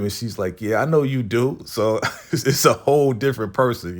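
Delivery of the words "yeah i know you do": confident attitude. Retold or imitated. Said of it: "she gotta play the role".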